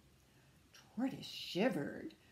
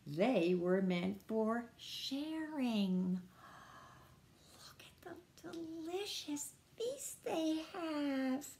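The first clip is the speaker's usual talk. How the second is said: put-on story reading to children. A narrator's reading. A reader telling children about Rabbit sharing his carrots, animated storytime. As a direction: read it aloud to small children, with gasps.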